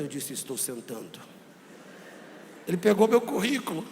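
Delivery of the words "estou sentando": very low and soft, forced gravity; deep put-on voice. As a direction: keep faking the deep grown-up voice. Deep voice kept for interviewer. (voz grossa forçada e baixa)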